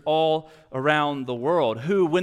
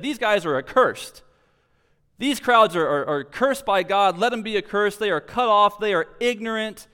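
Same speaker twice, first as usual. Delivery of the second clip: scornful condemnation; 4 semitones higher, 4 dB louder than usual. Retold or imitated. Pharisees condemning the crowds.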